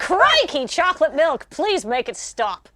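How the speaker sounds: Crocodile Hunter style plea; Australian accent. Pretend. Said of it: "the best Australian accent".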